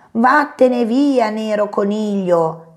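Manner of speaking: a little rabbit crying out in fright, slowing down; scared exclamation. Acted. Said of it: "esclamò".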